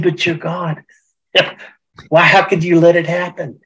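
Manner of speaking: rising, broken-laugh protest to God; anguished protest. Retold or imitated. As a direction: demand how God could allow it.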